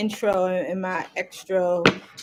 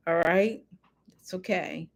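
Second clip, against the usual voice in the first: whisper; 5 dB quieter than usual. Real, not acted. Aside after being corrected.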